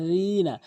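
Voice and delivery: "রিনা" as dhiina, tongue tip at teeth; correct DHAL. Shown as a demonstration. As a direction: stretch "রিনা" with th-as-in-this. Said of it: "জিহ্বার আগা দাঁতের আগায়".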